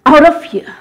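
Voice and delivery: commanding the storm. Shown as a demonstration. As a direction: cast the storm out with authority. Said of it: "speak to that storm and say".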